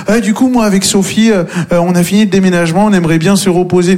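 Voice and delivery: mock tired friend. Friend voiced after the move.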